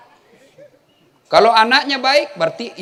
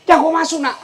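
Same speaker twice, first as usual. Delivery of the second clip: high, loud mock yell of a warning; retold shouted warning; 7 semitones higher, 5 dB louder than usual. Shopkeeper shouting at the villager not to enter, a high loud mock yell. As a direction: yell it like a frantic shopkeeper turning someone away. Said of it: "Dia teriak".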